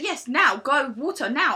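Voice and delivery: mock little commander barking slow orders; bossy commander. Imitating the tiny old staff member giving bossy orders. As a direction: play a tiny bossy official, lightly. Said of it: "He was a proper little, like, commander".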